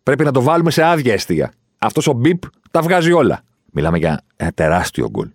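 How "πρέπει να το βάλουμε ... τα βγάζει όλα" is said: lightly acted player voice, pitched high; Neymar. Neymar telling teammates how to beat the keeper, high acted voice. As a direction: act out a footballer hatching his plan, higher. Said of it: "μέχρι που ο Νέιμαρ είπε".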